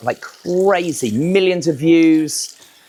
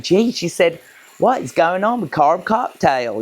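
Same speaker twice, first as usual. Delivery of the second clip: put-on southern accent; 4 semitones higher than usual. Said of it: "apologize for my southern accent".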